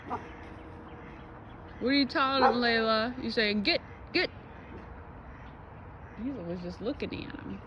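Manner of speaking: soft, hushed morning talk. Real, not acted. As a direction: keep the voice down.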